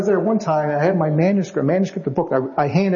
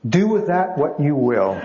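laughing quote; slower than usual. Retold or imitated. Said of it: "he goes".

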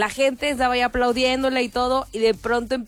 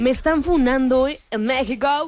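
mock shocked gasp; 2 semitones higher, slower than usual. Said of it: "su cara sí es como de".

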